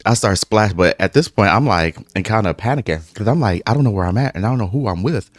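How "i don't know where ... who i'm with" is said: faster, rising higher anxious rant; mild panic. Retold or imitated. Alone in the bathroom, anxious rant climbing higher. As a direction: spiral into worry.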